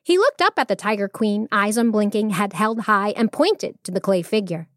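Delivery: expressive storyteller reading; measured, animated storytelling; story narration. A narrator's reading. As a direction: read it like a tale for children.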